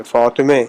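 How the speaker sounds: فاطمے ending in e, not aa; Persian e ending. Shown as a demonstration. Teacher contrasting Urdu فاطمہ with Persian ending. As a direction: end فاطمے on a front e. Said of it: "فاطمہ جو ہوگا وہ فاطمے".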